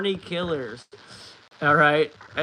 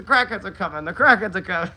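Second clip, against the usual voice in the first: Paul Revere call; 5 semitones higher, 7 dB louder than usual. Retold or imitated. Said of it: "Paul Revere word".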